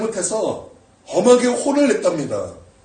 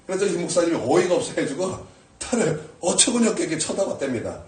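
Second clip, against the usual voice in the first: usual speaking voice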